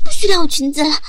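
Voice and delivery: loud, furious yell; furious shout. Acted. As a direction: shout the order in fury.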